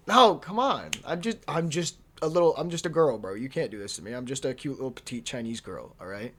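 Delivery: mock pleading girl voice. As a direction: beg like you're helpless and innocent. Pleading with dad, mock persona.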